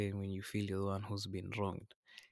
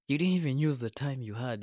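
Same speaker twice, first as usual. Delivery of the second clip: emphatic raised scold; 4 semitones higher, 7 dB louder than usual. Real, not acted. Scolding the listener directly.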